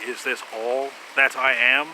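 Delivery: slow, wistful question with a rising end on "Is this all that I am?"; Spock's inflection. Retold or imitated. Fan retelling Spock's line, slow and wistful. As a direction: Spock gently asking "Is this all that I am?". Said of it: "his inflection, as he's saying it".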